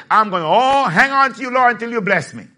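cling to the Lord and plead; Jacob's cry. Retold or imitated. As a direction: Jacob crying out he won't let go. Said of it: "Like Jacob said".

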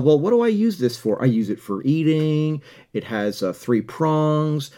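demo self-talk. Shown as a demonstration. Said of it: "say to yourself".

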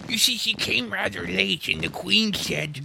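high, anxious stage whisper; frightened whisper. A narrator's reading. Rabbit explains to Alice, whispering in fright. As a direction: confide it nervously. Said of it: "whispered in a frightened tone".

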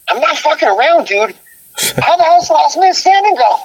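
mock panic, begging to be told the song; exasperated plea.

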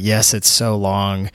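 normal talking voice

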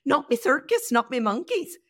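put-on Northern Irish lilt; Irish accent. Guest quoting her favorite phrase, Irish accent. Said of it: "you have to say it with that accent".

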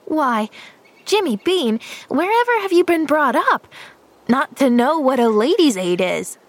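put-on high, scandalised child; shocked disapproval. A narrator's reading. Pollyanna scolds boy for his ignorance, shocked. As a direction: swoop up high in astonished reproach. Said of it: "Pollyanna stared in shocked disapproval".

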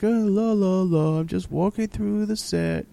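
high airy la la la, strolling; mock carefree singsong. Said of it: "he's like".

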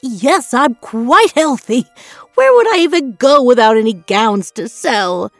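fretting cry. A narrator's reading. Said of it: "he cried, fretting".

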